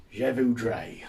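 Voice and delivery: French words in a plain English accent; no attempt at a French accent; unaltered English accent. Shown as a demonstration. Learner ordering in French, keeping his English accent. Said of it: "just keep with the English accent".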